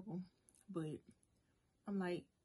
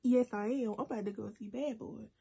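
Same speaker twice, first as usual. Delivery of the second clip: louder, stubborn talk-back to mom; defiant retort; 3 semitones higher, 5 dB louder than usual. Retold or imitated. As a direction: insist on it, loud and defiant. Defying her mom about the movie.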